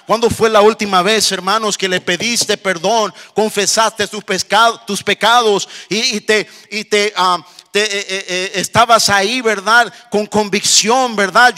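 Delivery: insistent, driving pulpit voice; fervent preaching. Real, not acted. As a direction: preach it with mounting urgency. Preaching with rising fervour.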